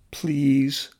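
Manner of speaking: whispered high please; quiet plea. Acted. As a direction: breathe it as a soft plea. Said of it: "the drone asked quietly".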